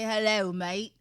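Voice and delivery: mild mock Australian accent. Shown as a demonstration. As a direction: lightly put on an Australian greeting. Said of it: "No, they say".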